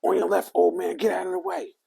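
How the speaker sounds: high, loud mock girl voice; mimicking a bossy little girl on the track; imitating a rude girl. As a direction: shout it like a snotty teen runner. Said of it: "she runs up on me and says".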